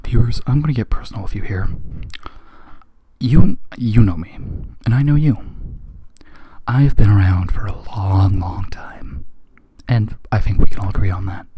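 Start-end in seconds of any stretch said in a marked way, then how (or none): 0.0-4.3 hushed confiding whisper. Real, not acted. Host confides to viewers in a whisper. 6.7-9.2 whisper. Real, not acted. Confiding aside.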